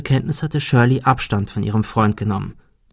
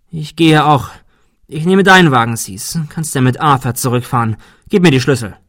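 indignant; 3 semitones higher, 5 dB louder than usual. Acted. Shirley storms off, arms crossed.

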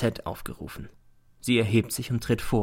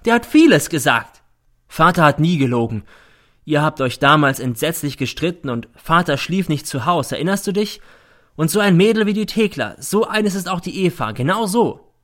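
high, loud spiteful rant; bitter mother; 6 semitones higher, 5 dB louder than usual. A narrator's reading. Mother ranting at her son in court. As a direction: spit out the old grievances. Mother attacks father and Eva.

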